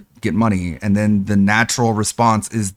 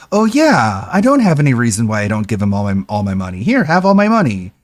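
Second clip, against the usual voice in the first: mock fan. Imitating fan giving money.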